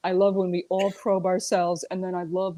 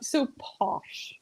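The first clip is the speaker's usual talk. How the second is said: whisper; 5 semitones higher than usual. Real, not acted. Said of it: "whispered aside".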